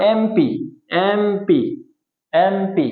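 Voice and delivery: এমপি as two letters, M, P, repeated with pauses. Shown as a demonstration. Teacher drilling an abbreviation, এমপি said as its letters. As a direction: repeat এমপি, naming both letters each time. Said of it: "আলাদা আলাদা উচ্চারণ করলাম".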